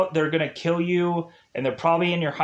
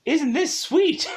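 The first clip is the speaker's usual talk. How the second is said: thrilled; 5 semitones higher than usual. Retold or imitated. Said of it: "she would have just been like".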